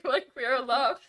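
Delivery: breathless after coughing; short of breath, laughing; gasping for air. Real, not acted. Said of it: "I really am out of breath".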